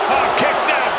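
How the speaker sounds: excited. Acted. Near-fall call.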